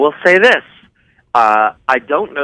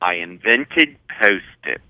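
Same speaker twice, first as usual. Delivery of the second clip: Romy and Michelle line; 3 semitones higher, slower than usual. Retold or imitated. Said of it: "These are all lines from the show".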